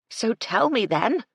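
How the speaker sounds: impatient lady demanding the rest of the news. A narrator's reading. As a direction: press him to get on with it. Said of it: "she demanded".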